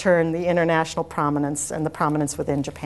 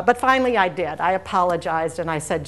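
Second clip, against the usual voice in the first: ordinary talk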